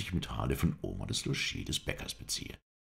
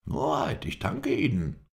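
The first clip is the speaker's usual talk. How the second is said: high, loud glad thanks; overjoyed at the coins; delighted; 10 semitones higher, 4 dB louder than usual. A narrator's reading. Caretaker thanks the Effendi for the money, delighted. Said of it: "rief er erfreut".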